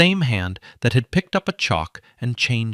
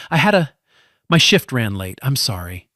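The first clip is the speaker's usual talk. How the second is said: louder, flustered breathless excuse; out of breath; 4 dB louder than usual. Acted. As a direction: rush the excuse, still panting. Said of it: "out of breath".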